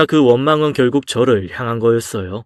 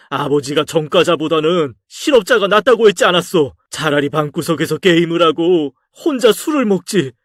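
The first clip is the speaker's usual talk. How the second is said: lecturing father; 5 semitones higher than usual. Acted. Father lecturing Jeongsu about a criminal record, rising exasperation.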